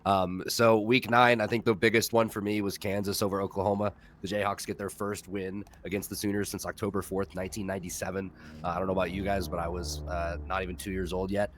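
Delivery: stuffed-up nasal voice from the flu; nasally voice. Real, not acted. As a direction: talk through a blocked nose. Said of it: "please excuse my, my super nasally voice".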